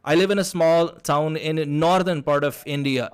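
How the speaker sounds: slow, stress on "small" and "northern"; "I live in a small town in northern part of India" with a linked flow; model phrasing. Shown as a demonstration. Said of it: "मैं आपको टुकड़ों में बता दूं". (स्मॉल और नॉर्दर्न पर ज़ोर देकर बहाव में)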